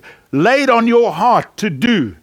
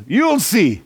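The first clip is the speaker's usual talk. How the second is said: hotel manager quote; 3 semitones higher than usual. Retold or imitated. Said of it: "he says this".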